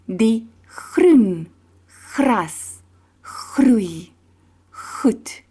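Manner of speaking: throaty G on groen, gras, groei, goed; tongue twister demo. Shown as a demonstration. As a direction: roll the G sounds through the twister. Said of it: "a fun tongue twister".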